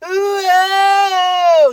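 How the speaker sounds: high, loud whooping ooh; excited ooh. Real, not acted. Fan reacting to the champ's entrance with a loud excited whoop. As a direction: whoop like you're in the crowd.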